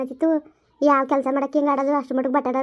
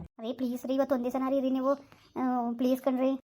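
soft begging; 6 dB quieter than usual. Acted. Wife begs husband not to leave.

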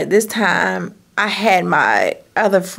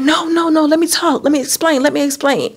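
pleading man voice; 7 semitones higher than usual. Retold or imitated. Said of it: "He was like".

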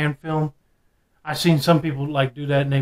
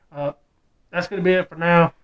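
muffled behind rubber mask; speaking inside full-head mask; through a face mask; 4 dB louder than usual. Real, not acted. Seen 5: Full rubber mask covers face and mouth throughout; refs unmasked.

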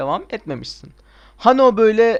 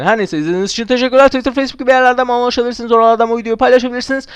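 fast, louder sign-off patter; quick YouTuber goodbye; rushed outro; 7 semitones higher, 10 dB louder, much faster than usual. Acted. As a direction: rattle through the channel outro.

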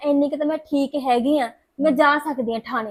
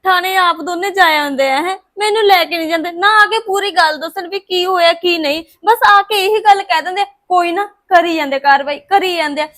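rising frustration, a bit louder; angry complaint; 4 dB louder than usual. Acted. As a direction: vent at the brothers who never take her along. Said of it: "ਆਪਣੇ ਗੁੱਸੇ ਨਾਲ ਤਾਂ ਕੋਈ ਹੱਲ ਨਹੀਂ".

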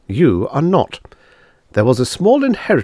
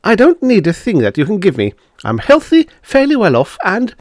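insistent; 9 semitones higher, 4 dB louder than usual. Acted. Miss Twilly insists, pitch climbing.

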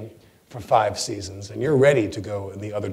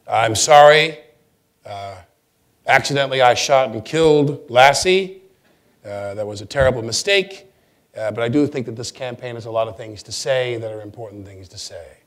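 mock press apology; 4 dB louder than usual. Candidate at press conference.

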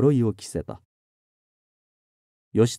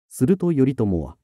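usual speaking voice

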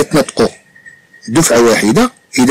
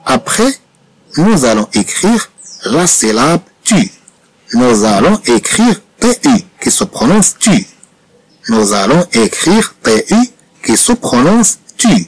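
very slow, each word spaced for writing; slow dictation; 2 semitones higher, much slower than usual. Shown as a demonstration. Teacher dictating the next word to pupils, very slow. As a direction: dictate it slowly to the class.

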